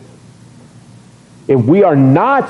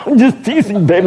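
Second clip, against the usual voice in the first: laughing pleading; 6 semitones higher than usual. Retold or imitated. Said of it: "I tap your lap".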